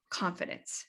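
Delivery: breathy whispered confidence; whispered emphasis. Acted. Coach whispers the key word to clients. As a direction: whisper the word to let it sink in.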